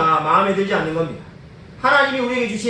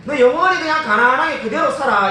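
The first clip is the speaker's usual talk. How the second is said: harsh decree; 5 semitones higher than usual. Retold or imitated. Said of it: "이런 말로 들립니다".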